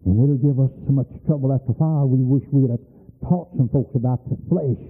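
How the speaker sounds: low, firm warning; stern low counsel. Retold or imitated. Preacher admonishing young lady, low firm. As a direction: talk her down with low authority. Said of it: "I said".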